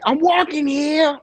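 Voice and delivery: high, loud yell at a passing car; mock indignant shout. Shouting at a honking car, high-pitched mock outrage. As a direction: holler it like an offended pedestrian.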